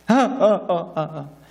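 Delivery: half-hearted imitated sobs; short huffed boo-hoo, fading away; mock wailing. Preacher imitating elders weeping at the temple foundation, mock sobbing. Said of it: "큰 소리로 울었다는 거예요".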